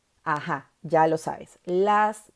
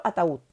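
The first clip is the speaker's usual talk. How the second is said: ataúd with the ú stronger than the a; stress on the U. Shown as a demonstration. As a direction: say ataúd in three syllables, leaning on úd. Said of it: "La U suena más que la A".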